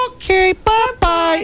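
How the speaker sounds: high, slow, slurring tipsy caller; drunk voice. Shown as a demonstration. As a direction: drawl it out like a happy drunk on the phone. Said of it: "I think you ought to have an".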